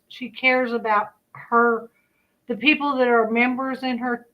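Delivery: speaking without dentures; talking with missing teeth. Real, not acted. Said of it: "I forgot to put my teeth in".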